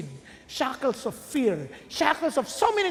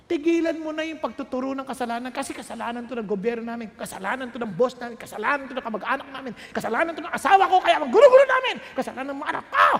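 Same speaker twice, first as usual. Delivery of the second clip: hammed-up blame list; mock blaming rant; 3 dB louder, faster than usual. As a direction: rattle off everyone you blame, rising into a shout. Mimicking a blaming complainer.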